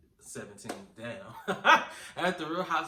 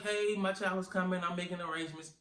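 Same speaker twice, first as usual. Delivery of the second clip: mock announcement; 5 semitones higher, faster than usual. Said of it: "let them know, like".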